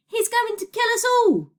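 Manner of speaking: high, loud shout over noise; alarmed shout. A narrator's reading. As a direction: shout it over a roaring wind. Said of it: "Elliot shouted above the noise".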